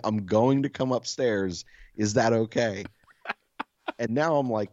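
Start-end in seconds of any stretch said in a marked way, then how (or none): 0.0-2.9 slow, courteous announcement, lightly acted; mock-polite burglar. Burglar asking leave to come upstairs, mock-polite. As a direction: ask permission with exaggerated politeness, unhurried. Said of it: "most polite fucking burglar ever".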